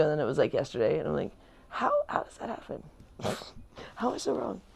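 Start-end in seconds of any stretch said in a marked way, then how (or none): 1.7-4.6 laughing disbelief. Retold or imitated. Laughing at her own mistakes.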